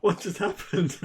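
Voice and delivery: high, loud startled outburst; shocked exclamation. Retold or imitated. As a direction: blurt it out in disbelief. Opponent's shocked reaction, retold.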